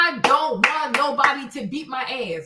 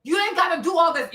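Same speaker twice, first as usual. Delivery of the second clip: ordinary talk, nothing marked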